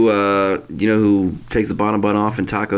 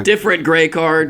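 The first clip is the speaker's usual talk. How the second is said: referee penalty announcement; 6 semitones higher than usual. Pretend. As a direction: announce the card like a ref. Joke ref card call.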